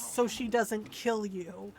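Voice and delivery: slow, deliberate words; slow quoted warning. Retold or imitated. Dad's dry warning to his son, said slowly. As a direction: spell it out slowly. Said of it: "his words".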